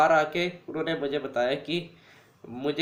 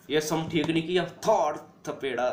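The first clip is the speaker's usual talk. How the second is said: strict teacher. Retold or imitated. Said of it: "वो बड़ी strict थी".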